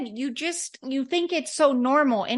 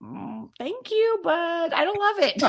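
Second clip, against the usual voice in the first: mock polite honesty; 6 semitones higher than usual. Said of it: "they can't just say".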